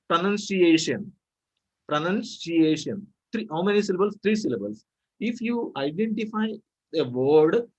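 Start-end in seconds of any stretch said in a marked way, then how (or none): 0.1-1.1 "pronunciation" broken slowly into groups; divided into syllables. Shown as a demonstration. Teacher showing syllable division, slow "pronunciation" in parts. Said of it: "If you divide the word into groups". 1.9-3.1 "pronunciation" slowed, syllable by syllable; divided into syllables. Shown as a demonstration. Teacher demonstrating syllable division, "pronunciation" slowly in pieces. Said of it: "If you divide the word into groups".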